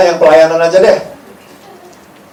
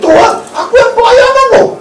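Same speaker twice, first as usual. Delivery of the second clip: much higher, loud bragging whine; mock self-important volunteer; 6 dB louder than usual. Church volunteer bragging to Jesus about serving, high whiny voice. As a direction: insist on your church service, high and pushy. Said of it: "yang datang gini".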